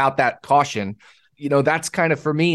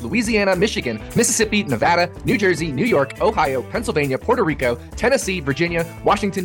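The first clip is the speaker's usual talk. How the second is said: rapid-fire legal fine print; fast legal disclaimer. Acted. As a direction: rattle off the disclaimer quickly.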